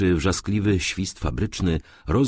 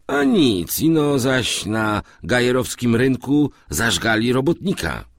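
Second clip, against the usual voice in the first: lightly voiced servant, higher pitch; a hint of a chatty servant; servant with news; 7 semitones higher, 4 dB louder than usual. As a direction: pass on town gossip to the master. Servant tells town news.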